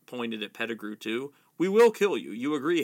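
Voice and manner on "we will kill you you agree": raised-voice threat, mildly growled; narrator's light growl on a threat. A narrator's reading. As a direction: warn him loudly and firmly. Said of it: "growled Black".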